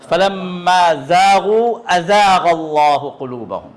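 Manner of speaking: slow drawn recitation with a buzzing ز in زاغوا; تلاوت کا انداز، زاغوا میں ز دانت دبا کر; Quranic recitation demo. Shown as a demonstration. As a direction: recite slowly, pressing the teeth for زاغوا. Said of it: "دونوں دانتوں کو آپ کو دبانا".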